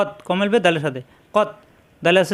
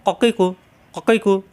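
slow drill; 2 semitones higher, slower than usual. Shown as a demonstration. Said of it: "হরকত উচ্চারণ তাড়াতাড়ি".

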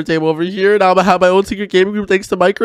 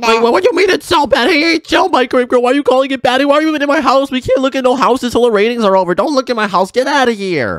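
indignant yelling; 6 semitones higher than usual. Acted. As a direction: shoo her out of your house, offended. Angry scolding of microwave girl.

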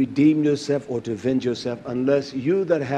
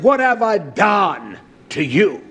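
bold challenge to God; 3 semitones higher, 4 dB louder, slower than usual. Acted. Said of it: "I don't believe I wanna talk like that".

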